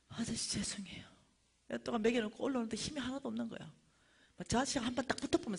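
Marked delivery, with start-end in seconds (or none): 0.1-1.0 whispered, submissive sorry; meek apology. Retold or imitated. Preacher swallowing anger before the vendor, meekly whispered. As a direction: apologize under the breath, barely voiced.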